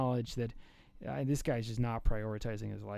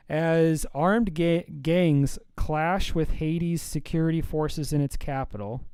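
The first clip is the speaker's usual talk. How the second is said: news read; 3 semitones higher, 9 dB louder, slower than usual. Real, not acted. Reads a news item aloud.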